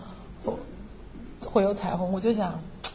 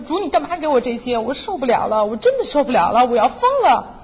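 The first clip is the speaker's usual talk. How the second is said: retold tearful prayer; 2 semitones higher, 3 dB louder than usual. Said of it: "一边哭我就一边跟主讲".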